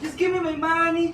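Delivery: quiet take. Shown as a demonstration. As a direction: pull it right down. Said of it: "repeated quiet take".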